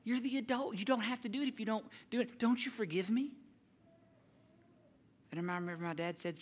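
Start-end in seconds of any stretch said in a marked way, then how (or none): 0.0-3.3 put-on nervous kid pleading. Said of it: "standing there and going".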